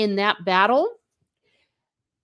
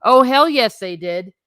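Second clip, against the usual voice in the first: loud, punchy insistence; emphatic loud yes; 3 semitones higher, 6 dB louder than usual. Acted. Talking to Precious about the bad season, loud and emphatic. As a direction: hammer it home with a big yes. Emphatic answer to doubting viewers.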